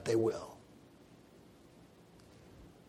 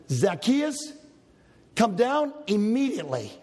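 firm command; 4 semitones higher than usual. Shown as a demonstration. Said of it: "is a command".

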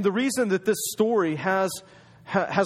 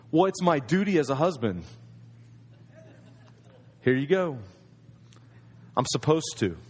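lightly voiced bored husband, just a duty; a hint of obligation in a husband's voice; dutiful, unfeeling; 3 semitones lower than usual. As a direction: hand them over like a chore, no feeling. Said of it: "Do you feel a little difference there between the first and the second?".

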